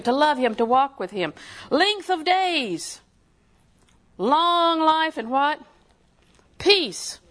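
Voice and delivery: high, drawn-out emphatic preaching; fervent preaching. Real, not acted. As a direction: proclaim the verse and press it on the congregation. Preaches verse at full force.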